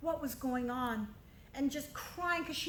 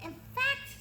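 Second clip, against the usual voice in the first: princess voice; 13 semitones higher than usual. Acted. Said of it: "said the princess".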